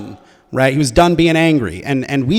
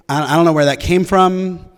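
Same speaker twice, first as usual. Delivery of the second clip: higher-pitched pleading; pleading apology; 4 semitones higher, 3 dB louder than usual. Retold or imitated. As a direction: plead bewilderment at your own outburst. Acted apology to girlfriend.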